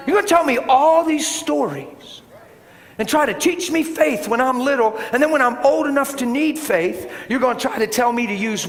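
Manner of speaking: high, forceful preacher's challenge; indignant challenge. Real, not acted. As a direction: push it out in indignation. Indignant rebuke of church's doubt.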